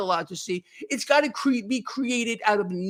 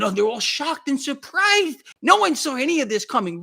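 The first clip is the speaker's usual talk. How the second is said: mocking media astonishment, pitched up; mock shock; 4 semitones higher, 3 dB louder than usual. Blogger mimicking the propaganda ministry, mock shocked. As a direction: exaggerate their surprise to ridicule it. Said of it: "you turn on the propaganda ministry".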